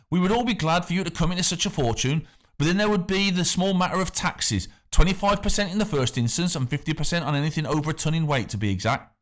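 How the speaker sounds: smooth and friendly on top, threat underneath; the factor. A narrator's reading. The factor coaxes the boy about treasure, affable with a hint of menace.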